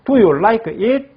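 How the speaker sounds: drawn-out question for repeating; slow teacher model; slow rising model. Shown as a demonstration. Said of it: "따라하겠습니다".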